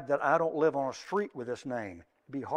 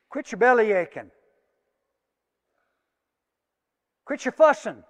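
loud, higher playful scold like a parent; mock scolding; 6 semitones higher, 10 dB louder than usual. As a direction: tell the fussing kids to quit it.

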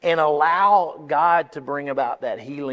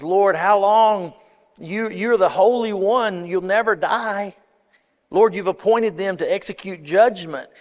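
raised, pleading, louder and higher; anguished plea to God; 3 semitones higher, 4 dB louder than usual. Acted. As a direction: cry out to God in despair. Habakkuk crying out to God.

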